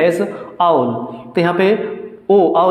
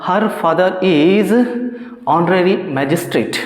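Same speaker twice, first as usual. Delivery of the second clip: slow dictation; much slower than usual. Shown as a demonstration. Teacher dictates example sentence.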